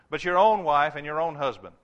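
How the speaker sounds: emphatic own, twice; stress on own. Shown as a demonstration. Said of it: "Emphasis on the word own".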